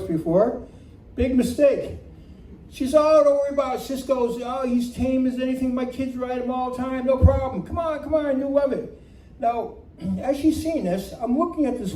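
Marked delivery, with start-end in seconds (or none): 3.0-9.0 higher-pitched imitation of coaxing; breezy reassurance. Horse owner talks nervous rookie into riding, imitated breezy reassurance. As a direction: wave away all worries, pitched up. Neighbor coaxing a hesitant rider.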